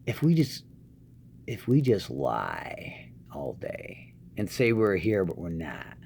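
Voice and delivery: slow, soft scheming slacker; lazy conspiratorial pitch to skip work; lazy coworker. Retold or imitated. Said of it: "your outright fools".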